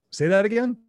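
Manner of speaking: as if he can't believe the coincidence; startled. Retold or imitated. Buddy startled by school name.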